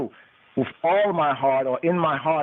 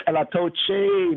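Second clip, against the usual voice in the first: slow, much higher chant on Elatoche; high intoned; 13 semitones higher, slower than usual. Shown as a demonstration. Teacher intoning the Amharic word for haters, slow and high.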